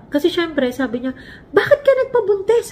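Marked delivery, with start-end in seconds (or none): 1.5-2.7 high, sharp scolding voice of a furious dad; father scolding daughter on the phone, angry. Retold or imitated. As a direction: demand it like an outraged father. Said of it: "Nagalit siya".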